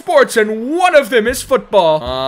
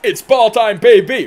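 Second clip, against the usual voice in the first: louder catchphrase hype call; 6 dB louder than usual. Pretend. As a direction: belt out the team slogan. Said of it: "Now we gotta say the phrase".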